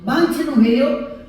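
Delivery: mock alarm at the hammer; alarmed question. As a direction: ask it startled. Wife asking, alarmed.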